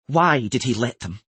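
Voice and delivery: loud, demanding queenly shout. A narrator's reading. Queen demanding answers from the Earl, shouted. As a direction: raise the voice sharply in reproach. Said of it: "shouted the queen".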